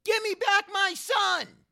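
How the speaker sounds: drawn-out, high-pitched full yell; Mel impression. Kid showing Mel Gibson the impression of him, yelled at full volume. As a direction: yell it slow and huge, like a movie line. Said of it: "here's my impression of you ... This is what I yell".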